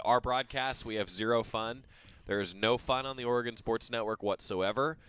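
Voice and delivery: low, deadpan denial; dry, understated deadpan joke; mock-serious. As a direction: say it with mock solemnity. Mock-solemn joke about no fun.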